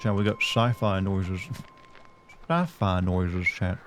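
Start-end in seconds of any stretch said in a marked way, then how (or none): 0.4-1.4 whistle the s of "sci-fi" through the teeth; drawn-out "sci-fi" with a whistling s; tooth whistle. Shown as a demonstration. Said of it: "that little tooth whistle". 2.5-3.5 very slow "Sci-fi" with a long whistled s; "Sci-fi" drawn out on a piercing s; tooth whistle. Shown as a demonstration. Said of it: "that little tooth whistle".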